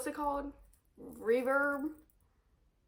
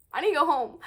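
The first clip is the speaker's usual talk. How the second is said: louder, pressing need to get home; insistent; 3 semitones higher, 6 dB louder, faster than usual. Real, not acted. Stuck behind the moms, loudly insisting she must get home. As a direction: push it, fed up. Frustrated at traffic.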